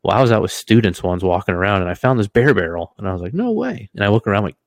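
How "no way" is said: high squeaky amazed gasp; stunned disbelief at the find. Retold or imitated. Finding the bear barrel.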